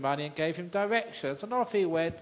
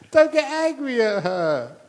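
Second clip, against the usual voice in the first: excited; 8 semitones higher, 11 dB louder than usual. Real, not acted. Joke punchline to audience.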